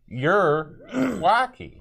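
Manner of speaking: slow, high drawn-out catchphrase; a light B.A. Baracus impression. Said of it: "It's just like B A Baracus".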